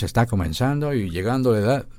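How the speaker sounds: ordinary talk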